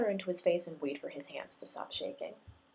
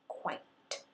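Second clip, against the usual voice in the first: tight answer; 4 dB quieter than usual. A narrator's reading. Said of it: "she tightly answered".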